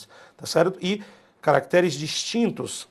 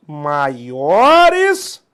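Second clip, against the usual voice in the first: "maiores" alto, agudo e esticado; ênfase em MAIORES; 10 dB louder than usual. Real, not acted. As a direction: puxe o "o" de "maiores" para cima, com força. Destaca condição do enunciado. ("maiores" bem esticado e forte)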